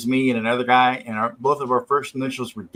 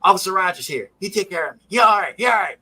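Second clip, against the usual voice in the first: excited reassurance; 6 semitones higher, 4 dB louder, faster than usual. Retold or imitated. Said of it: "He goes".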